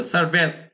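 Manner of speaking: সার্ভিস said quickly with a reduced vowel; quick schwa. Shown as a demonstration. Teacher explaining schwa must be quick, quick schwa. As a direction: say সার্ভিস as a quick "sar-bes". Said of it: "শোয়া sound দ্রুত বলতে হবে".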